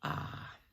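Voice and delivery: short, sharp, satisfied breath; a crisp, pleased exhale. A narrator's reading. Reeves after calming down, a short satisfied ah. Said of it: "short, sharp, satisfied".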